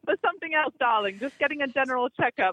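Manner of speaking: lightly put-on British lady; mock British accent. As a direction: keep up the British act, gently. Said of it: "do a British accent".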